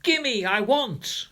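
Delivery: put-on high, slow greedy child's whine; whiny demand. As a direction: drag out the gimme like a spoiled brat. Spoiled child demanding toys.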